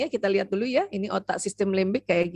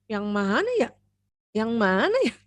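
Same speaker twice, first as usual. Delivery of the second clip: put-on puzzled child. Shown as a demonstration. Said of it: "Ada anak gini".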